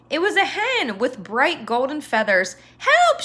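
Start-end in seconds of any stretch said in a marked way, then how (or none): 2.8-3.2 high, louder squawking hen cry; clucking hen. Acted. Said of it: "she clucked".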